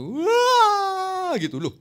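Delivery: very high, loud mock wail; hammed-up crying sound; imitated wailing. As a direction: wail like someone sobbing in prayer. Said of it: "Kok nangis tuh".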